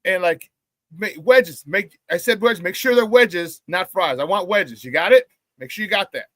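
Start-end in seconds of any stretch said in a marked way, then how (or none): 0.9-2.0 imitating customers talking down; mock a bossy, talking-down order; condescending. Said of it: "talking down to the bartend". 2.6-6.2 imitating a demanding customer talking down; mock-bossy order to the bartender; condescending. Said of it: "talking down to the bartend".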